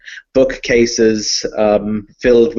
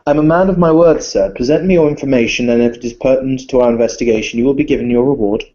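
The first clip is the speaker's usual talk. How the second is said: refined vampire lord greeting a guest; Viscount Alexander Harkin; 3 semitones higher, faster than usual. Acted. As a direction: play a polite, fussy nobleman. Viscount speaking in character.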